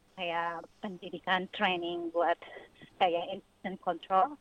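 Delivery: out of breath from running; talking while jogging, breathing hard. Real, not acted. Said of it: "saya lagi lari".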